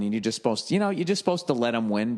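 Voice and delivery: ordinary talk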